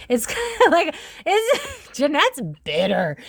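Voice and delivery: high-pitched, breaking into laughter; laughing. Real, not acted. Reader amused that Jeanette's bitter, laughing. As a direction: laugh through the words, drawing out the last.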